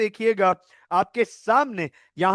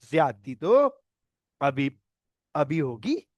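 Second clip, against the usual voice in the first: mock villain threat; 6 semitones lower, slower than usual.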